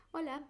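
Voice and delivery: Hola with a silent H, starting on the O. Shown as a demonstration. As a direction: say Hola, skip the H. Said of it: "Can you say it?".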